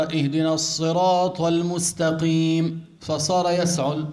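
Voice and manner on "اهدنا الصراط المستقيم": slow, chanted recitation; Quran recitation. Shown as a demonstration. A teacher reciting as an example of coughing. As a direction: intone the verse gently. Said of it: "يعني عم يقرأ".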